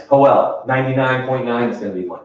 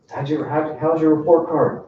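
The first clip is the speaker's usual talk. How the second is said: imitating dad; 3 semitones higher than usual. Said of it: "my dad would do this with me".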